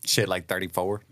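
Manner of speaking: Kentucky accent. Real, not acted. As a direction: slip into a Kentucky holler accent. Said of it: "The hollers of Kentucky just came out of you".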